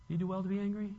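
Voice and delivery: soft, patient question; softly voiced mild reproof; gentle questioning. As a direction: ask it quietly, without any fight. God's mild answer, against parent's.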